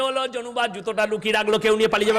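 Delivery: practical words in a pretend wail; imitation weeping singsong; mock crying. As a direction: keep up a fake lament while fretting. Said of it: "সে এত কাঁদছে".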